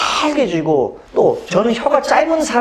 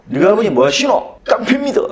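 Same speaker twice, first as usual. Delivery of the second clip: film scene quote; 2 semitones higher than usual. Retold or imitated. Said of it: "친구 영화".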